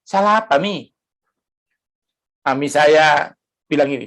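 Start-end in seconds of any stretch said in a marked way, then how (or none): 0.1-0.9 high-pitched puzzled protest, acted; retold bewildered question, pitched up high; incredulous son. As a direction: act out a son questioning his mother in disbelief. Acted son asking mother again.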